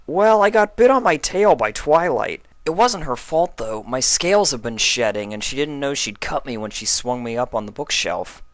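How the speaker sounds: lightly voiced young dragon recounting; puzzled storytelling; Spike explaining. A narrator's reading. Spike telling Applejack what happened, lightly voiced.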